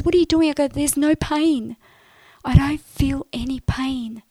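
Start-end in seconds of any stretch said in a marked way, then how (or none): 0.0-0.5 much higher and louder, startled; startled mum. Retold or imitated. Mum seeing her hit her leg, startled. 0.7-4.2 joyful realisation. Retold or imitated. Telling Mum the pain is gone, joyful.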